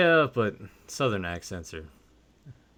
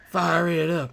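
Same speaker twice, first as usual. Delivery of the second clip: high catchphrase repeated softer; quieter catchphrase; 8 semitones higher, slower than usual. Retold or imitated. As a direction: echo the villain line, calmer.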